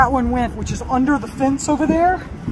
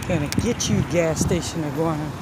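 teasing pet voice; 8 semitones lower, 4 dB quieter than usual. Pretend. Teasing a caught iguana.

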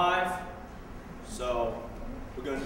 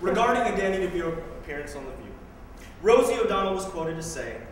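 brisk, projected poetry delivery; crisp recital to an audience; spoken word poem; 4 dB louder, faster than usual. Acted. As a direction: open the poem like a public statement.

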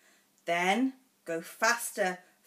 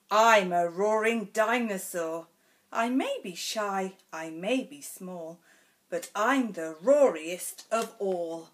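bold stomp. Acted. Dinosaur speaks in book.

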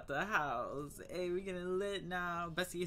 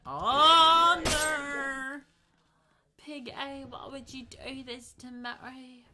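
much higher whiny voice, loud at first; 11 semitones higher, 12 dB louder, much slower than usual. Pretend. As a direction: whine like a wronged kid. High loud whine to game pig.

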